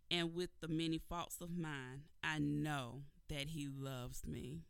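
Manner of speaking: measured, reverent recitation; poem reading. Acted. Host reading her cousin's poem to listeners, reverent recitation. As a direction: read it like a cherished verse.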